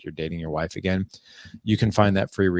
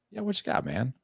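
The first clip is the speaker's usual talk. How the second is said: inviting; 5 semitones higher, 5 dB quieter than usual. Shown as a demonstration. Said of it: "is an invite".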